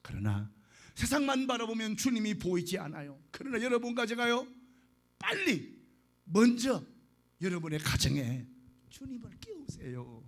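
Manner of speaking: earnest preaching to the flock. Acted. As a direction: exhort the congregation with fervour. Preaches to the congregation. (회중에게 열정적으로 설교)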